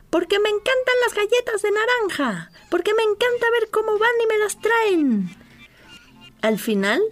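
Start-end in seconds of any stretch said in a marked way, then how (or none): 0.1-5.4 mild shout from afar. A narrator's reading. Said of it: "gritó desde lejos".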